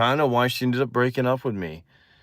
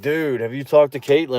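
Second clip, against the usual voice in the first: mildly excited, slightly higher quote; excited friend; 4 semitones higher than usual. Retold or imitated. Teen friend asking about the crush, mildly excited. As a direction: imitate an eager pal. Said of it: "running to me all excited and stuff".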